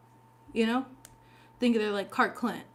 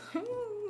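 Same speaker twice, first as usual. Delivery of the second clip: high laugh; 12 semitones higher, 9 dB quieter than usual. Real, not acted. Laughs at the card.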